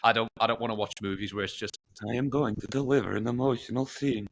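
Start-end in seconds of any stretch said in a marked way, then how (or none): 2.1-4.3 flat, mechanical robot delivery. Retold or imitated. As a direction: speak like an emotionless machine. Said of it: "do the robot voice".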